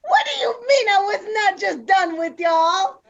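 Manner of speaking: loud, laughing denial; mock outraged protest. Host denies co-host's teasing account, mock outraged protest. Playful protest at being quoted.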